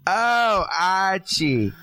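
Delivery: hammed-up sultry wife; Edith voice. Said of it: "do her voice and be like".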